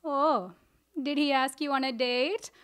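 acted-out derisive question; mocking mom. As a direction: imitate a mother making fun of her daughter. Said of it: "My mom is mocking me".

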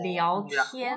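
聊天 drawn out slowly, syllable by syllable; slow pronunciation model. Shown as a demonstration. Teacher models word for pupils.

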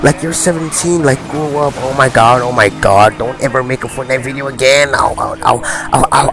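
high, mocking whiny complainer voice; whiny critic. Mocking a fan who scolds the YouTuber, high and whiny. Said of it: "So they're like".

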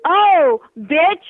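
fast angry cursing; furious outburst. Real, not acted. Angry customer to rude caller, fast furious cursing. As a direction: lash out in real fury.

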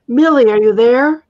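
loud, high shout into the air; calling out. A narrator's reading. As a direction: call out searching for her. Dragon calling out amid arrows.

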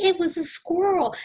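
hammed-up uncle's shriek. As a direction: wail out the bad news. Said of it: "And he's like".

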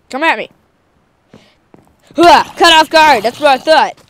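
triumphant shouting at enemies; loud taunting yell. Real, not acted. Kid yelling at game guards.

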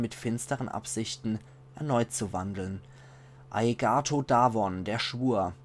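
measured, solemn chronicle reading; story narration. A narrator's reading. Player reading a chronicle of the undead plague, measured narration. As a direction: tell it like an old war chronicle. Reads in-game book aloud.

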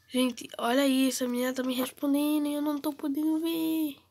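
excited. Real, not acted. Girl answers, can't see it.

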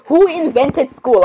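drawn out, each word hammered slowly; slow rhetorical rant. Real, not acted. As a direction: demand it slowly, exasperated. Rhetorical rant about school.

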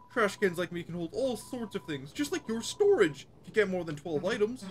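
high, bouncy voice for a chatty living trash can; cheery trash can voice. Acted. Trash can character greets the player, high and bouncy. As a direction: play the proud little trash bag, perky and pleased.

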